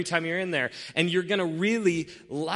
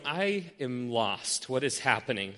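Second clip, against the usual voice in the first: bewildered. Pretend. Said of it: "Now, you're bewildered".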